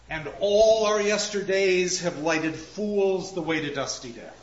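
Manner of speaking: verse line declaimed, falling away on the last words; recited verse. Shown as a demonstration. Lecturer reads Macbeth's line to the class, recited. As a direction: recite the line in full, letting it drop to a close.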